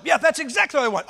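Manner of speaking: lightly acted greedy agreement; the devil. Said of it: "Oh, devil".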